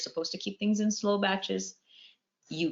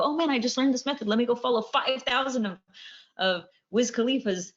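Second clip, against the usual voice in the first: higher-pitched imitation of an overeager fan; mock excitement; 6 semitones higher than usual. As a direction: act out getting carried away with a new idea. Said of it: "you guys get excited and go".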